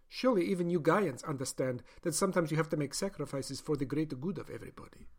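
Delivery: a doctor justifying her experiment; doctor's voice. Acted. Doctor lectures the caged man.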